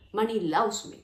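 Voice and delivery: "loves" leaned on firmly; emphasized affirmation. Shown as a demonstration. Coach showing how she emphasizes the words, stress on "loves". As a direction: put clear weight on "loves" in "Money loves me". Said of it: "I just emphasize the words".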